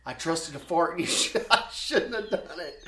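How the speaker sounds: imitating a confession through laughter; amused retold confession. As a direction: start steady, then crack up mid-confession. Retells embarrassed confession, cracking up.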